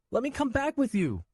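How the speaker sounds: put-on high boy's voice, crying plea; crying child. Nico crying to Swen, high crying plea. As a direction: beg through tears. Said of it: "I wailed louder".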